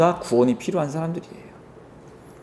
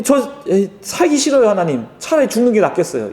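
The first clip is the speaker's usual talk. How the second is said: whiny, higher protest to God; mock angry complaint; 5 semitones higher than usual. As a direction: play a sulking prophet arguing with God. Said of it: "엄청 열받아가지고 하나님께 따졌어요". (투덜대며 따지는 요나 흉내)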